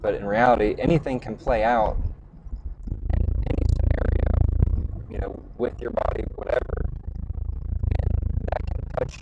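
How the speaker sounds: glitchy robotic call audio; robot voice breaking up over the line. Real, not acted. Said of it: "he sounds like a robot again".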